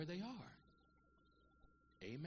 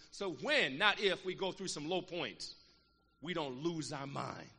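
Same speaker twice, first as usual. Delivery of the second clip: slow and deliberate; 9 dB louder, slower than usual. Acted. Preacher slowing down to warn the saints, slow and deliberate. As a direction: draw each word out slowly.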